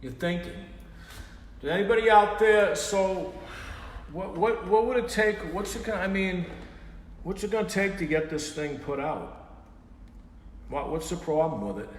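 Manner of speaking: high squeaky puppet voice; high-pitched puppet voice. Acted. Puppet voice keeps pressing.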